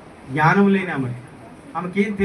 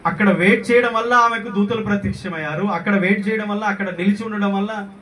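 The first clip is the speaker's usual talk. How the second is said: raised, insistent preacher's voice; fervent preaching; 5 semitones higher than usual. Real, not acted. Preacher stressing to congregation why she waited, fervent preaching. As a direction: press each repeated point home, pitched up.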